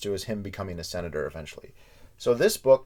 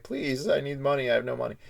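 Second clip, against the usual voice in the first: higher-pitched pleading, lightly imitating someone crying; mock tearful plea; 6 semitones higher than usual. Johnson begging a business contact for money, mock tearful. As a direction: beg with a mild put-on whimper. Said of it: "Lyndon Johnson started to cry".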